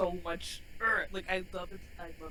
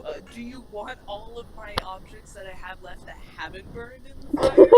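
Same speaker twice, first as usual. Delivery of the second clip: frantic apology; 4 semitones higher, 11 dB louder than usual. Retold or imitated. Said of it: "I would be like".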